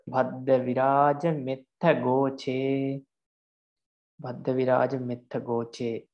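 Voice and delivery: measured Pali recitation; slow verse recitation. Shown as a demonstration. Teacher recites the verse line for students, slow chant. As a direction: chant bhadda viraja metta goche slowly and evenly. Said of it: "reciting the example verse line".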